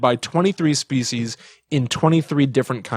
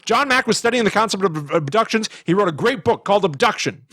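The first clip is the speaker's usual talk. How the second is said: Aykroyd impression; 7 semitones higher than usual. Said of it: "That's what Dan Aykroyd said".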